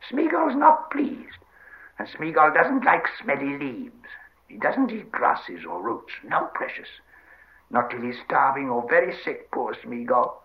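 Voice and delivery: slow creature voice, starting high; sulky Gollum. Acted. Gollum refuses smelly leaves, sulky self-pity. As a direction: whine and refuse, drawing words out.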